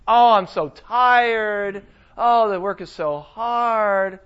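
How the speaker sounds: slow, tired mock whine; hammed-up weary sigh, slow; mock whining. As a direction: drag it out like an exhausted worker. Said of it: "Us who complain".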